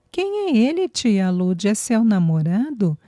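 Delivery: put-on a child sizing up a stranger; suspicious child. Girl asking her aunt about the stranger, suspicious. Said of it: "com desconfiança".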